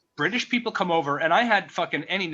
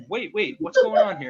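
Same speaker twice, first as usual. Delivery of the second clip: surprised; 4 semitones higher, 5 dB louder than usual. Retold or imitated. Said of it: "and you're like".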